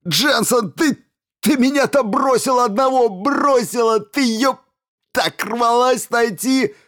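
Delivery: high, loud accusing shouts; raging yell. A narrator's reading. Stevens screams accusations at Jensen in pain. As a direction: hurl the blame at her. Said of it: "заорал Стивенс".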